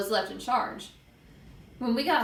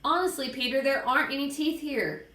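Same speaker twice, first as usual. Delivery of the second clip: higher-pitched whiny insistence; acted distressed girl's voice; pleading girl; 5 semitones higher than usual. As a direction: plead that you've truly looked. Upset Sheila pleads with Peter.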